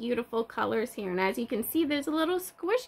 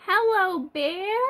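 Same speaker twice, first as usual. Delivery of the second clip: higher, louder hello to the bear; surprised greeting; 7 semitones higher, 4 dB louder, slower than usual. Pretend. Teacher surprising toddlers with a hidden bear, higher and louder. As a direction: open the door and greet the bear.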